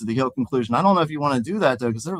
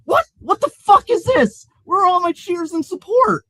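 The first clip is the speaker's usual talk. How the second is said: louder, high-pitched tantrum; whiny high crying voice; 5 dB louder than usual. Acted. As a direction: wail it like a spoiled man-child who expected cheers. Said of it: "cried the Laughing Man".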